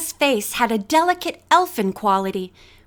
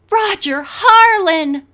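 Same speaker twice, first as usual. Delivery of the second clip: high, loud, drawn-out starstruck cry; excited shriek; 8 semitones higher, 6 dB louder, slower than usual. A narrator's reading. Bess spots a famous model, excited shriek. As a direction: squeal his name, forgetting your cool. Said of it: "Bess shrieked".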